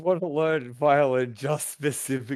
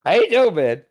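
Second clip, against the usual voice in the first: excited greeting; 7 semitones higher, 9 dB louder than usual. Real, not acted. Enthusiastic greeting.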